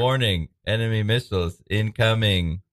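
slow robotic warning; computer voice. Acted. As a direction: announce like a ship's computer. Computer alert.

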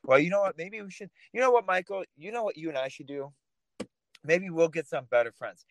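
sarcastic suggestion to Michael about posting hate for a book deal. Pretend. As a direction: pretend to want to sell out, dripping irony. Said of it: "I'm being sarcastic".

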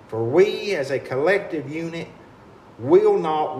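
rousing, defiant speech to a crowd; rally them, firm and resolute. Real, not acted. Rallying flood survivors.

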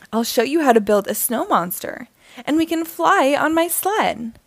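bright eager pitch rising to the sled; a little vampire girl bubbling with snow plans; excited exclaim. Acted. Little V tells Poppy her snow plans, excitedly. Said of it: "V exclaims".

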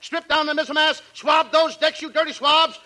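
hammed-up captain commanding the crew; pirate-captain sung orders; mock captain. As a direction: bellow sea orders, ending in a long shout.

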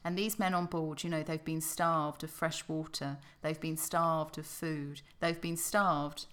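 loud, slowing, punching each starved; dramatic storytelling. Acted. Host narrating the Bounty crew sighting land, dramatic. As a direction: tell it like an epic voyage tale.

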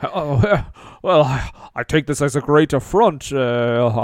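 lightly put-on stately British actor; Ian McKellen. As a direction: play a puzzled British thespian, lightly. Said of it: "Sir Ian McKellen".

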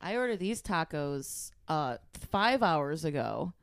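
slow, indignant complaint; Karen complaining. Acted. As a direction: draw out each grievance. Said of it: "impression of a Karen".

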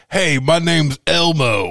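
a hint of Elmo; imitating Elmo. Friend recalling the original Elmo voice. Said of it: "Or the original, like".

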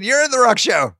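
high, exasperated aside to the actress; mock scolding. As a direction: tell her she's lost, half-amused. Telling the actress she's miscast.

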